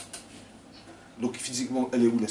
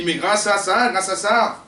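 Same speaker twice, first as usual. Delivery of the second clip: excited thanks; 8 semitones higher, 8 dB louder, slower than usual. Acted. Believers thanking for the plagues.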